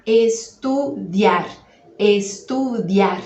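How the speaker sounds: Estudiar slowly, the I quick and light, the A stressed. Shown as a demonstration. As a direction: glide past the I and lean on the A in Estudiar. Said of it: "Passa pelo I bem rapidinho".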